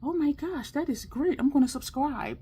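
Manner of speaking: high, gushing new fan; excited new viewer. Pretend. New viewer gushing at a makeup vlog, high and excited. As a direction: squeal like a thrilled first-time viewer. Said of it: "I hope you're like".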